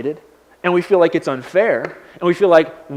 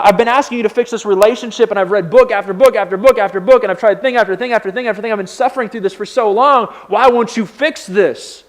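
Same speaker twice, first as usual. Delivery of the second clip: mad at God; 4 semitones higher than usual. Acted. Believer begging God to fix a relationship, fed up. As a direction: rattle off the efforts, then demand an answer. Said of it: "we start getting mad at God".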